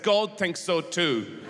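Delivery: slowed, weighty verdict; slow solemn pronouncement. Acted. Cave prophet judging the glutton, slow and solemn. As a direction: deliver it slowly like a prophet. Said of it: "somebody came around the corner and said".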